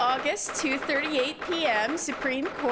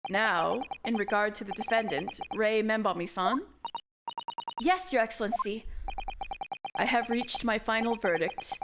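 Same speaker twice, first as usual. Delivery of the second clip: stern judge; 5 semitones lower than usual. Acted. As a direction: deliver the verdict like a grave old judge. Judge reads verdict.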